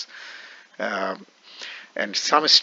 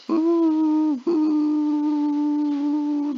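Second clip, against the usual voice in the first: high falsetto ooh. Shown as a demonstration.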